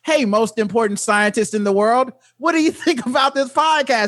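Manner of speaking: a hint of a goofy cartoon announcer. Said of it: "living in a cartoon where it's like".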